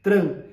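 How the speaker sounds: Tran said loud and short; stressed syllable. Shown as a demonstration. Teacher naming the strong syllable of trânsito. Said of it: "qual que é a sílaba mais forte".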